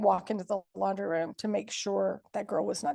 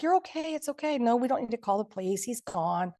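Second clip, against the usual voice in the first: dismissive soothing; 2 semitones higher than usual. Retold or imitated. Stephen was acting so strange.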